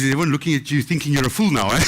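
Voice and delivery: teasing with a chuckle; chuckling. Retold or imitated. Mandela teasing caller in the bank, chuckling. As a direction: laugh through the tease. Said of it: "he starts chuckling".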